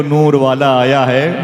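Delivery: slow, drawn-out and loving, rising at the end; said with love. Shown as a demonstration. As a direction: stretch "नूर वाला आया है" out slowly with devotion. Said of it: "जरा मोहब्बत से कह दो". (मोहब्बत से, धीरे-धीरे खींचकर)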